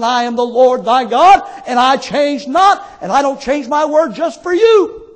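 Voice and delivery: loud, emphatic preaching as God; God's stern declaration. Acted. Preacher voicing God to Israel, stern declaration. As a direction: build to a ringing last word.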